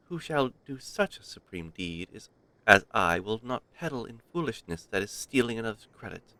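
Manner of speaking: a hint of a regal lady granting favour; posh royal voice. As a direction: read it as a haughty queen, lightly. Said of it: "posh royal voice".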